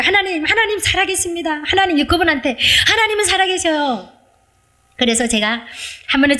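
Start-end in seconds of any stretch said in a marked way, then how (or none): 0.0-4.1 raised-pitch eager proclaiming, held back in volume; bursting to tell strangers, pitched up high; urge to shout. Retold or imitated. A believer on the subway, eager to proclaim God lives, high and excited. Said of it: "제가 막 소리 지르고 싶은 거예요".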